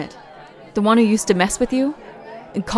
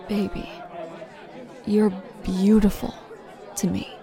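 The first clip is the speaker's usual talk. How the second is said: tender; 3 dB quieter than usual. Acted. Loving reassurance.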